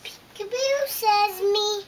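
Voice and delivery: put-on delight the toddler; playful peekaboo. Peekaboo to the little one, loud and playful.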